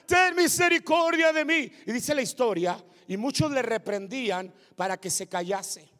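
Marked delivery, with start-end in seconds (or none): 0.1-1.7 raised, high-pitched plea; crying out. Acted. Blind man begs Jesus for mercy, crying out. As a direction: call out pleading, slightly held back. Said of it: "empezó a clamar y a gritar".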